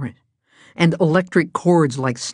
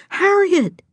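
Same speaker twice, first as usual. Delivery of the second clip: high, eager call of a name; excited cry. A narrator's reading. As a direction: cry out in sudden hope. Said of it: "she cried".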